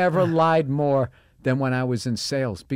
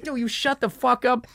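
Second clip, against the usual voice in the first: annoyed coworker; 12 semitones higher than usual. Retold or imitated. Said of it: "you'd be like".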